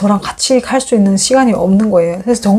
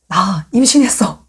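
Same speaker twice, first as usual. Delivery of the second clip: tender announcement; slower than usual. Retold or imitated. Announcing pregnancy to husband.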